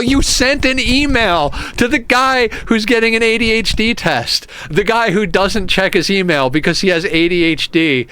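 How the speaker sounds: high, loud incredulous rant; disbelieving outburst at the email. Real, not acted. Ranting about the email.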